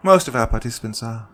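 lightly voiced, sugary calm host; a hint of a smug hostess calming a captive; Judy's voice. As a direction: soothe them falsely, in control. Narrator voices Judy.

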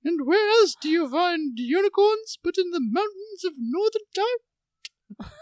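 swooping, theatrical mock announcer; film-star impression. Host introducing Jennifer in a put-on swooping star voice. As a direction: introduce with hammed-up lilting swoops. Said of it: "use one of these voices".

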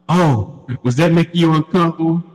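winded, exasperated threat, sinking as it ends; out-of-breath threat. Retold or imitated. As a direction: imitate gasping after being tickled, starting high. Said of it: "I can't breathe out this motherfucker".

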